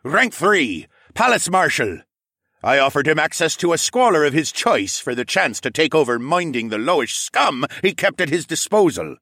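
high, loud grudging confession; sullen prisoner voice. Acted. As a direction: confess with resentment.

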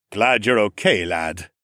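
lightly voiced nobleman; a lord's mild rumble; rumbling lord. A narrator's reading. Lord speaking to the stable boy, a hint of rumble. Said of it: "Lord Mech rumbled".

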